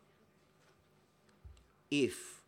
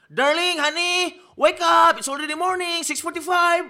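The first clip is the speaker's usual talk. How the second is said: high, loud, sing-song mommy calling; sweet mother voice; 10 dB louder than usual. Retold or imitated. Mother calling her son out of bed, high and sing-song. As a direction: call the sleepy child up high and sweet.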